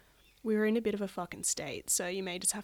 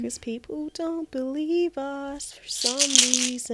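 whispering; 4 semitones higher, 3 dB louder, slower than usual. Real, not acted. Whispered aside.

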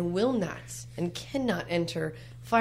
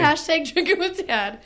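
excited; 10 semitones higher, 4 dB louder than usual. Real, not acted. Playful hashtag cheer.

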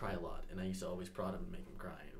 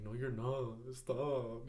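put-on crying little kid; 2 semitones higher, much slower than usual. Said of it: "He's like".

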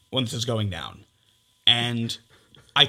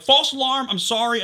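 higher, louder rushed sorry; retold frantic apology; 9 semitones higher, 5 dB louder than usual. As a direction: blurt the apology in embarrassed panic. Retold panicked apology text.

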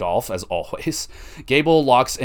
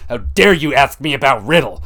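mock outraged Seth; 3 semitones higher, 6 dB louder than usual. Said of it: "He's just like".

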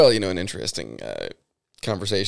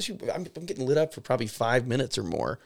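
exasperated laughing rant; 5 semitones higher, 4 dB louder than usual. Real, not acted. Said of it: "It's just ridiculous".

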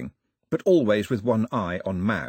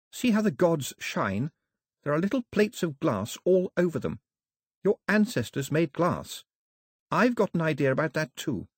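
a hint of an eager young girl; earnest girl, lightly voiced; 5 semitones higher than usual. Daphne explaining, hopeful.

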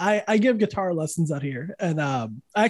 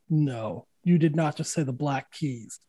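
low, deadpan disbelief; mock disbelief; 4 semitones lower, 4 dB quieter than usual. Teacher hearing a student's favorite band, low mock disbelief. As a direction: drop the voice, deadpan and appalled.

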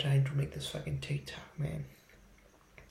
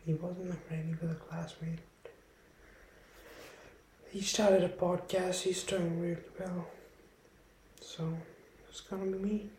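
lightly raised, soft put-on podcast voice; 4 semitones higher, 4 dB quieter than usual. Starting his podcast alone, lightly raised put-on voice. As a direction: talk a bit higher than your own, half-whispered. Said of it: "I don't know why I keep talking like this".

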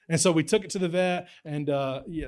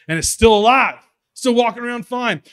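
much higher and louder, marveling; incredulous exclaim; 8 semitones higher, 11 dB louder than usual. Retold or imitated. Friends reporting the dog survived a truck, incredulous. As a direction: sell the disbelief.

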